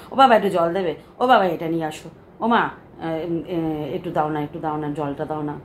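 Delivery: put-on a grown daughter whining at her parents like a child; whiny daughter at parents' home. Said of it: "এরকম করতে থাকি". (বাপের বাড়িতে মেয়ে বাবা-মায়ের কাছে আবদার করছে, নরম ঘ্যানঘ্যানে সুরে)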